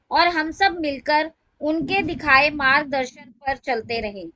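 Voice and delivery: measured reading with phrase-by-phrase pauses; formal tribute recital. Acted. Devotee reading her written lines to the satsang, formal recital.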